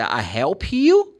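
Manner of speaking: I help you said slowly; slow present. Shown as a demonstration. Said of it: "If I say".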